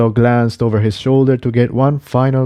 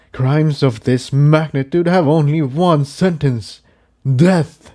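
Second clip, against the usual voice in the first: raised, solemn proclamation; stern leader's verdict; 5 semitones higher than usual. Acted. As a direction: pronounce the sentence to the crowd. Starburst announces the sentence.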